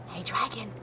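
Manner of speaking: quiet hushed hey dragon; soft whisper. A narrator's reading. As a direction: gently test if the dragon is asleep. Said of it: "Elizabeth whispered softly".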